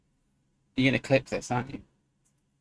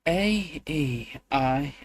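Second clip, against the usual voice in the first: frustrated; 3 semitones higher, much slower than usual. Shown as a demonstration. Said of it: "You hear me frustrated now".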